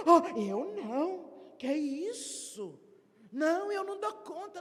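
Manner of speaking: bashful refusal. Acted. Shy member at the meeting refusing to pray, coy mock refusal. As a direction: act the shy member brushing it off.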